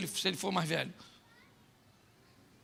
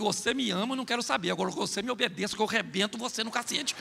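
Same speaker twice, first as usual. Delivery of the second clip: softer, fast, curt threat from a strict mom; stern old-school mother; 2 semitones lower, 7 dB quieter, faster than usual. Retold or imitated. Preacher imitates an old-fashioned mother scolding her daughter, curt and quiet. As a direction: dismiss the question, then threaten, hurrying. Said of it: "Sua mãe falava que".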